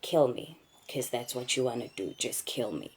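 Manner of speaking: fading from plain to quiet, defeated plea; resigned giving up. Retold or imitated. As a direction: give up and let the words die away. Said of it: "I gave up at some stage".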